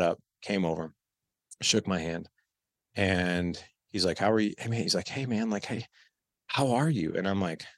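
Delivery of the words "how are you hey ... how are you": lightly voiced laid-back dad, a bit higher; a hint of a drawling bum greeting. Son mimicking his long-lost dad as a bum, lightly voiced. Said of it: "I make him sound like a bum".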